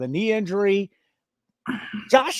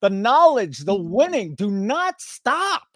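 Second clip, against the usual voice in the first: higher, building, drawn-out final line; mock rally cry; 5 semitones higher, slower than usual. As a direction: hype him up, stretch out the last words slowly. Praising co-host's passion.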